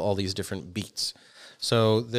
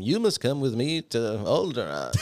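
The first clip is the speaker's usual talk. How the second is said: Alec Guinness; 2 semitones higher than usual. Acted. Obi-Wan summons Luke to Alderaan, Alec Guinness impression. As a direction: intone it like a grand old Jedi master. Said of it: "you like my Alec Guinness right there".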